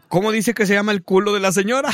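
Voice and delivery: asking through a laugh; giggling while asking; laughing question. Retold or imitated. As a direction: Cuban man laughing as he asks. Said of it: "Cuban asks, laughing".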